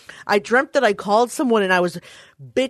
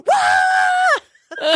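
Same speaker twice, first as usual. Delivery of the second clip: mock crying wail; 4 dB louder than usual. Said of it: "I'm like".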